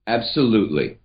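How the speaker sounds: firm, certain "Absolutely"; mean every syllable; wholehearted commitment; committed absolutely. Shown as a demonstration. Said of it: "I will answer you two different ways".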